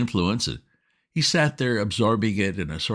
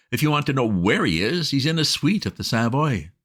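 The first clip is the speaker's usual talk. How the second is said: put-on agitated young master; 6 semitones higher than usual. A narrator's reading. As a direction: splutter the news at the butler. Bertie agitated to Jeeves.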